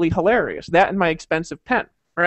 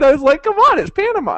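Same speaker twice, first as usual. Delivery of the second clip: laughing; 11 semitones higher, 5 dB louder than usual. Retold or imitated. Laughing plea about bribing.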